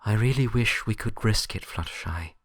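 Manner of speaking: a lightly voiced firm Twilight, easing off; softening firm voice. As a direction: start firm, then let the edge soften a touch. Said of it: "the sharp edge of her voice softening slightly".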